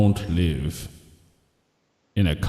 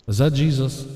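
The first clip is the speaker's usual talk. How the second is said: pitched way up, calling out; high excited voice; 7 semitones higher, faster than usual. Pretend. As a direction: squeak out the question high. Caller asking heaven.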